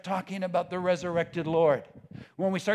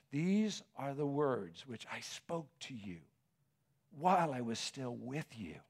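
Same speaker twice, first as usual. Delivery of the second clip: solemn scripture recitation; 4 semitones lower, 5 dB quieter than usual. Acted. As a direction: quote holy words softly, weighing each phrase. Reads words of Jesus solemnly.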